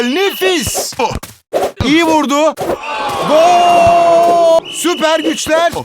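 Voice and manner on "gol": screaming football commentator. Acted. Goal called in commentary.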